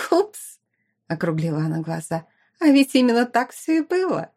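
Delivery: high, mock-innocent oops; feigned shock, then smug; mock surprise. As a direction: fake innocence, then tease. Fake surprise mocking rival.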